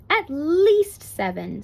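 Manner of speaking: "least" stretched long, high and loud; emphatic insistence. A narrator's reading. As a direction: lean hard and slowly on "least". Child character insists on her answer.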